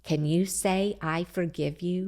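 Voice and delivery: put-on soft, patient mom coaxing the child to say 'I forgive you'; coaxing prompt. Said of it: "give them a minute or two and say".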